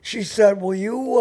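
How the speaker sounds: normal talking voice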